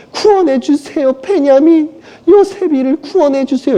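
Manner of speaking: high pleading voice; high desperate maternal plea; begging mother. Acted. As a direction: plead like a mother clutching at God. Rachel begs God for sons.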